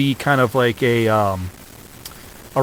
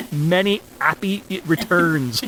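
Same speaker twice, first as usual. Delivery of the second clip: higher-pitched mock-Cockney birthday greeting; Cockney accent; 5 semitones higher than usual. Podcaster quoting the child's birthday gift message, in Cockney. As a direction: drop the H in a put-on Cockney. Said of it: "in full Cockney, as, as she would say it".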